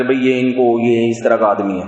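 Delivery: calm, even complaint; lightly voiced wife, composed; calmly. Wife calmly complains to the preacher about her husband. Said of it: "بہت آرام سے بات کر رہی".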